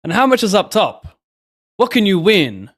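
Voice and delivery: put-on high, loud African American accent; a loud African American driver voice. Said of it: "that was my black voice".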